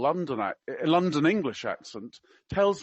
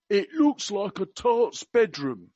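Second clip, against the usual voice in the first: slower, higher mock-Cockney quote; attempted Cockney; 4 semitones higher, 4 dB louder, slower than usual. Quoting the prince on a house's decor, in attempted Cockney. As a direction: try a Cockney accent, drawn out. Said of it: "I can't do Cockney. I will try my best".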